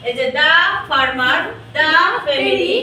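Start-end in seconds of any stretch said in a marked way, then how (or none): 0.4-0.5 'the' said slowly as daa before farmer. Shown as a demonstration. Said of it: "এটার উচ্চারণ কি হবে?". 1.7-1.9 'the' drawn out as daa before family; a slow 'the' with an open aa. Shown as a demonstration. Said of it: "এটার উচ্চারণ কি হবে?".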